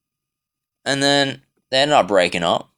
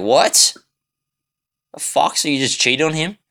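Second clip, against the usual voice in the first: retold stunned "what?", rising in disbelief; shocked disbelief; 5 semitones higher than usual. Retelling to the camera his reaction to a cheating friend, mock shocked. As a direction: replay your own shock at hearing he cheated. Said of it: "I'm just like".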